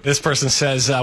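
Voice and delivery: ordinary talk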